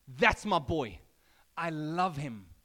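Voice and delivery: a hint of a proud father; Father's voice. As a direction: announce it like a proud dad. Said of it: "The voice of the Father says".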